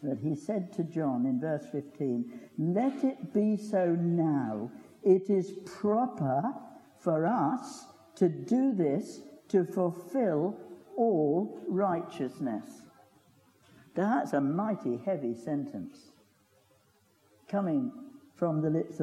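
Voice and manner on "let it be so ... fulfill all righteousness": slow, weighty and sure; solemn, slow quote of Jesus; confident. Acted. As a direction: lay each word down with calm authority. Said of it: "Jesus says with huge confidence".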